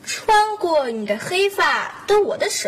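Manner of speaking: measured, poetic read-out; theatrical recitation. Acted. Child reading a love card aloud, declaiming.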